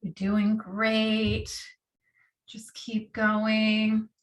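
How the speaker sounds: slow, steady encouragement; encouraging coach. Acted. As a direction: cheer them on calmly. Encouraging during breath of fire.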